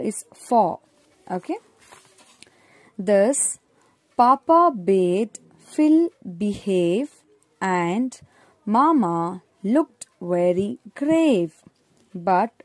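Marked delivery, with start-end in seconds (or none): 3.0-12.5 put-on slow, clear poem reading for kids; reading to children. A narrator's reading. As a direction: read the rhyme slowly and plainly for young learners. Reads poem aloud to children.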